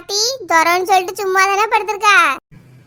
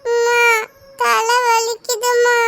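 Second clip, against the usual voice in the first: put-on sick child; 3 semitones higher, slower than usual.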